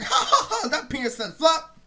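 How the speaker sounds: high-pitched mimicked cackle into a jeer; mocking laugh imitation. Retelling how he laughed at him in underwear, mocking laugh imitation.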